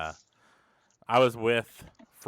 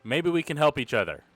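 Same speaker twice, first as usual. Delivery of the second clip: raised-pitch plea, half-yelled; mild acted yell; 4 semitones higher than usual. Player yells at the captain to bargain, mild acted yell. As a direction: call out a higher, restrained appeal. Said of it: "yell at the captain and say".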